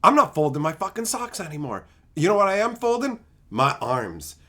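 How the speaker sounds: lightly acted low, quick defiance; understated tough-guy husband; mock firm husband. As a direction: lay down the law, half-seriously. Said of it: "go right up to your wife and go".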